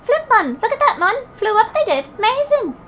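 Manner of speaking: put-on high-pitched, excited accented fairy; amazed young fairy. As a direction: marvel like a thrilled little fairy. Delighted young fairy in game dialogue.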